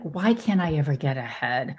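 mild whiny complaining. Retold or imitated. A person whining about life, lightly whiny. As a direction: whine it lightly, like a tired complainer. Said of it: "in that really whiny way".

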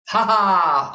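bold fiery vocal burst; bold, bright. Shown as a demonstration. Teacher showing singers' fire sound, bold and bright. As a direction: send it all the way out. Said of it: "all that bold, bright".

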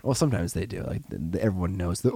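normal talking voice

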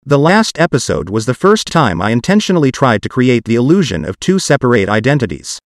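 synthetic text-to-speech voice; computer-generated voice. Real, not acted. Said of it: "my parts will be done with a computer-generated voice".

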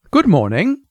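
polite receptionist's good morning; pleasant greeting. A narrator's reading. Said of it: "looking up at him pleasantly".

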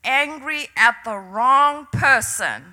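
slow, measured pronouncement, lightly voiced; understated voice of God; the Lord's voice. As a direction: quote a divine word calmly and deliberately. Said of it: "I heard the Lord's voice say".

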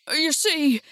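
a plaintive, lightly acted whimper. A narrator's reading. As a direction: voice a cowardly lion starting to whimper. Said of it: "with a whimper".

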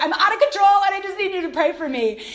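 child admitting to mom, mildly kid-voiced; child pleading. Voicing her kids asking.

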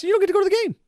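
high sharp stern no; stern refusal. Retold or imitated. Gatekeeper refusing an anti-masker entry, high and stern. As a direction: slam the gate on him.

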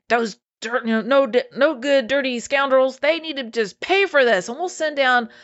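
angry. Retold or imitated. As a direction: imitate riled disciples calling down punishment. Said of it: "They're angry".

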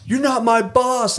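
high, slow, indignant whine; lightly hammed-up Southern worker snapping back; mock sulky redneck. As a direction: play the sulky grown man refusing orders. Angry coworker quoted.

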